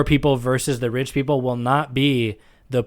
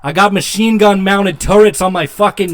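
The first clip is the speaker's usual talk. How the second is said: loud Boston robot boasting; Boston accent; 7 semitones higher, 6 dB louder than usual. Pretend. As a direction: brag in a thick Boston accent. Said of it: "super thick Boston accents".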